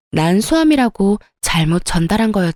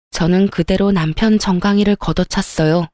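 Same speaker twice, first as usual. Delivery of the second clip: ordinary delivery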